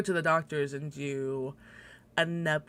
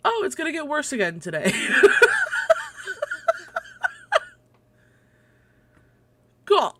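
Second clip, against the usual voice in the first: higher, fast, breaking into a laugh; laughing in disbelief; 7 dB louder, faster than usual. Real, not acted. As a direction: laugh it off, words tumbling out quickly. Reading bad air-quality news.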